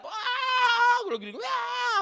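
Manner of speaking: high, loud scream on the ride; retold screaming. Pastor reenacting his screams on the roller coaster, shrieking high. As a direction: wail like you're plunging down. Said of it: "gue teriak-teriak".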